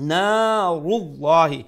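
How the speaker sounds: নারুল্লাহি chanted slow and loud, with a long naa; slow recited নারুল্লাহি; one alif long. Shown as a demonstration. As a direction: draw out the first vowel of নারুল্লাহি. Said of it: "এক আলিফ লম্বা".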